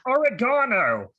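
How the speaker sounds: oregano said the British way, stress on GA; slow, careful British oregano; mock British pronunciation of oregano. Shown as a demonstration. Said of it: "I have to translate".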